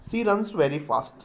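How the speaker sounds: stretched out very slowly; very slow, clear dictation. Shown as a demonstration. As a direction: dictate the phrase slowly for writing. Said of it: "देखिएगा इसमें".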